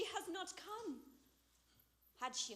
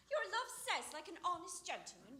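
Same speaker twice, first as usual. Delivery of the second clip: mocking imitation. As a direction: parrot her words back teasingly. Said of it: "How oddly thou repliest".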